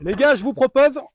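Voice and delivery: talking loud over ear protection; too loud, headphones on. Real, not acted. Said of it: "je gueule un peu parce que j'ai le casque".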